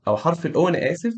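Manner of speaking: ordinary delivery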